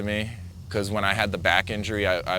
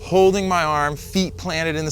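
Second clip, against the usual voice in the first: strained; 6 semitones higher than usual. Retold or imitated. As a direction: push it out like holding on hard. Reliving clinging on in surf.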